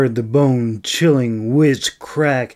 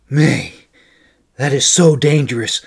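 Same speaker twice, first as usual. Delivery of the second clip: louder, fast, worried plea; a touch of loud anxious pleading; mild pleading; 3 semitones higher, 8 dB louder, faster than usual. Acted. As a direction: scold and beg her at once. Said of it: "he pleaded".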